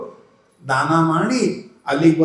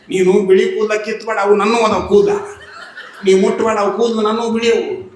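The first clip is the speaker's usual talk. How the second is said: louder protesting wife, a laugh in it; indignant protest; 3 semitones higher, 5 dB louder than usual. Acted. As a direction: object loudly, don't touch mine. Elder wife protests her hair. (ಜೋರಾಗಿ ಆಕ್ಷೇಪಿಸುವ ಹೆಂಡತಿ)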